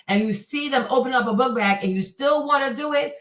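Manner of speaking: ordinary talk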